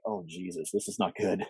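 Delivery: hushed aside to yourself; very soft reenacted worry; retold dismay. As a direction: say it under your breath, as if in trouble. Retold reaction to the damning list.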